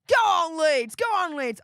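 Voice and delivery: loud, high cheering for Leeds; chanting on your team from the sofa; football cheer. Retold or imitated. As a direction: shout it like you're at the match. Cheering Leeds on during match.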